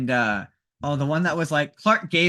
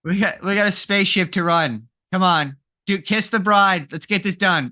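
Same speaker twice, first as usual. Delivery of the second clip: mock impatient captain; 4 semitones higher, 5 dB louder than usual. Voicing Kirk rushing the wedding.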